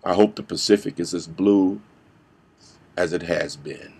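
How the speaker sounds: low, soft, fading to a whisper; wistful hush. Acted. Actor closing his monologue on a dream, wistful hush. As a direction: trail away dreamily with long pauses.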